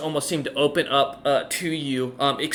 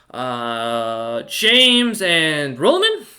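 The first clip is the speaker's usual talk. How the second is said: dwarf banker asking; 5 dB louder, much slower than usual. Acted. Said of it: "she nods and goes".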